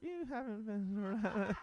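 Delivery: high amused comeback through a laugh; mock retort with a laugh. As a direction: tease them while laughing. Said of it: "I was like".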